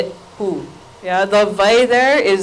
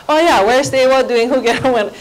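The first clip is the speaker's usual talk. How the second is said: students rattling off; 4 semitones higher than usual. Retold or imitated. Students repeating the teacher's made-up pattern, rattled off. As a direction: imitate pupils reciting a drill, higher pitched. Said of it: "I have my students rattle off".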